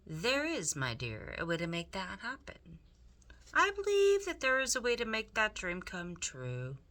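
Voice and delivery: Roscoe the rat. Acted. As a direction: speak up sweetly like a charming villain. Roscoe tempts Meg.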